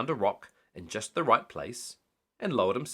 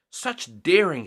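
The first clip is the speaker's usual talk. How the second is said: higher, louder thrilled exclamation; exclaiming; 6 semitones higher, 6 dB louder, slower than usual. A narrator's reading. Missus Grinling watches the surfer, thrilled exclamation. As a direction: marvel at the surfer. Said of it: "she exclaimed".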